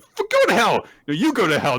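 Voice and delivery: put-on high, loud childish squabble; mock yelling. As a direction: yell it back like bickering kids.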